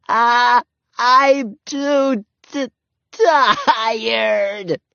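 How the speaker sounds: put-on high, slow, breaking little-girl sob; sobbing. A narrator's reading. Ramona crying in the snow that she is too tired, sobbing. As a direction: cry it out, worn out. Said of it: "she sobbed".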